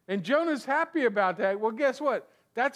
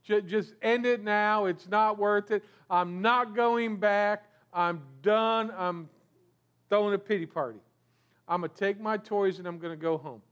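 mock sulking. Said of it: "So upset with what's going on".

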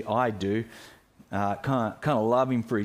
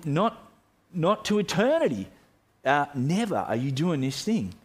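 insistence building higher toward "not to eternity"; emphatic refusal; 3 semitones higher than usual. Retold or imitated. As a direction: refuse firmly, rising in pitch as it goes. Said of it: "with even more emphatic words".

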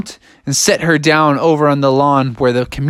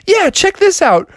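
high, eager show-off frog; excited frog; 3 dB louder than usual. Acted. Froggy shows off.

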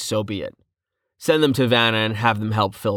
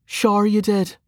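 higher-pitched sarcastic jab; dry doubt in a raised voice; 11 semitones higher than usual. Acted. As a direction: needle the noble with mock agreement. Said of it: "said Vanna sarcastically".

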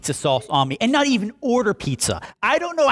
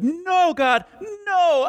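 mock resisting shout; 10 semitones higher, much slower than usual. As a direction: yell it like someone fighting off help. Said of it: "be like".

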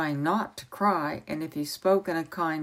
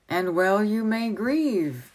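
slow, a little higher and louder outburst; hot exclamation; 4 semitones higher, 4 dB louder, slower than usual. Acted. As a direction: Merlin flares up at the boy. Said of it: "exclaimed Merlin hotly".

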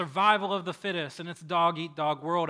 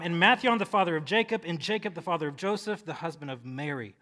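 confident reading; 5 dB louder than usual. Shown as a demonstration. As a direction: read unfamiliar names as if you know them. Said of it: "just read it with confidence".

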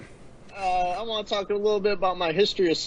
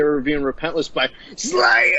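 metal shout. Shown as a demonstration. Cohost showing the right way to announce the album, roared. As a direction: belt the title out like a fan. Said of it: "You gotta say".

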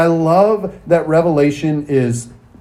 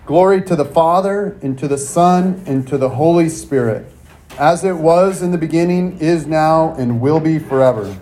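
measured, slightly raised liturgical prayer voice; recited prayer. Acted. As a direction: lead the congregation through the prayer, phrase by phrase. Congregation prays centering prayer.

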